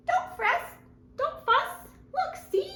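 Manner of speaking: high squeaky little mouse voice; mouse squeaks. Acted. Mouse comforts the sad bear in a high squeak. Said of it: "Mouse squeaks".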